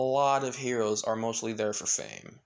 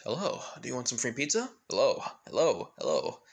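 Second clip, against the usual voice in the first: testing out different tones on each hello; man tuning his disguised voice; changing voices; faster than usual. Acted. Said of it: "he started changing his voicing".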